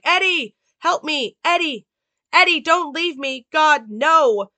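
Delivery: high, loud begging as he's abandoned; desperate pleading cry. Retold or imitated. Wounded Charles begging Eddie not to leave him, high desperate plea. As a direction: call after the fleeing partner in panic. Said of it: "Charles is like".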